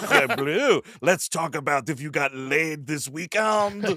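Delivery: put-on French accent. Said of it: "a pervert Frenchman".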